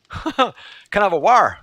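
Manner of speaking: mock Norfolk "war", T swallowed; Norfolk dropped T. Shown as a demonstration. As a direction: ask for water as "war". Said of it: "they don't pronounce T's or T H's".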